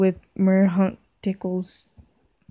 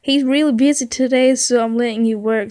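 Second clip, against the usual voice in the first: higher, louder mom voice; 4 semitones higher, 6 dB louder than usual. Acted. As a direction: play the mother insisting.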